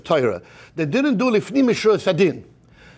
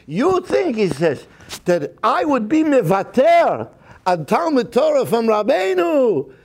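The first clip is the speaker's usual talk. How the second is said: higher, louder, heartfelt refusal; impassioned refusal; 5 semitones higher, 3 dB louder than usual. Retold or imitated. The young man refusing the rabbi's check, impassioned and raised. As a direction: insist fervently, pitch up. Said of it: "he tears up the check".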